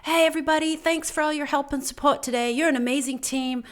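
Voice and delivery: retold appreciative radio farewell; kind, uplifting. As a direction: imitate a coworker thanking the team sincerely. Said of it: "said this really kind, uplifting".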